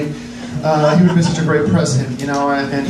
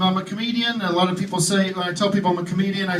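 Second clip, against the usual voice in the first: quiet aside; 6 dB quieter than usual. Real, not acted. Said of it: "quiet aside".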